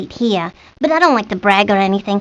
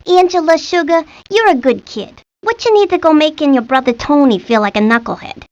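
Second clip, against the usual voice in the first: dad voice; 5 semitones higher than usual. Retold or imitated. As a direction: do Pop, sweet but scolding. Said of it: "He says".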